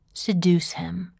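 slow breathy seductive whisper. Acted. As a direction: breathe it slowly, like a secret. Sultry one-word answer, whispered.

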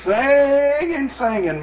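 high, stretched first word, as if holding a note; slow, lingering vowel that then drops back down; drawn-out singsong. Retold or imitated. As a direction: imitate someone singing on and on. Mimics boy endlessly singing.

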